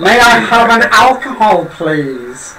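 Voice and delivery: slow, overly polite order; stiff bookish stranger. Acted. Newcomer asking the barman for a drink, stiffly polite. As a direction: ask like a foreigner reading from a phrasebook.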